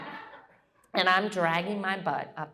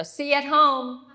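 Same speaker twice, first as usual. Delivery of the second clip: retold yell; 7 semitones higher, 6 dB louder than usual. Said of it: "yells out the window".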